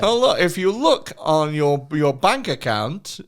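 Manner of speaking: generic scam caller voice. Retold or imitated. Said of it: "I'm not doing a specific accent here".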